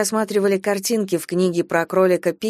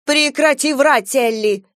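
angry scolding; 6 semitones higher, 4 dB louder, slower than usual. A narrator's reading. Stepmother scolds the girl.

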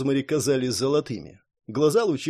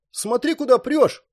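higher, sharp indignant cry; indignant outburst; 10 semitones higher, 4 dB louder than usual. A narrator's reading. Rosemary, elbowed by Jerry, shouts indignantly. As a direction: shove back with outrage. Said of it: "возмутилась девушка".

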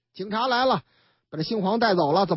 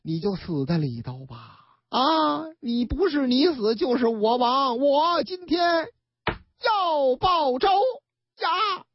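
slowing, drawn-out menacing vow; hammed-up son swearing revenge; vengeful threat; 5 semitones higher, slower than usual. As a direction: stretch the last words like a curse. Son shouts vengeance through door.

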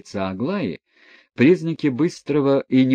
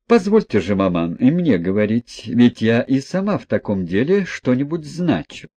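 insistent daughter; 3 dB louder than usual. Acted. Aglaya insisting to her mother on speaking, firm. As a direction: claim your right to speak.

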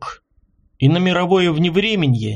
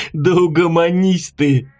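laughing. A narrator's reading. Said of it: "засмеялся Белый".

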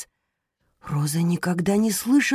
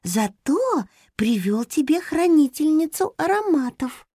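much higher gentle hamster greeting; tender, as to the sick; 9 semitones higher than usual. Acted. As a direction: soothe her like a patient. Hamster continues. (нежно, как с больной)

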